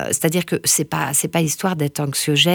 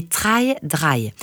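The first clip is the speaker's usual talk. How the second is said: English accent on Try Dry, slow; accent anglais. Real, not acted. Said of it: "un accent anglais, pas très satisfaisant". (accent anglais hésitant)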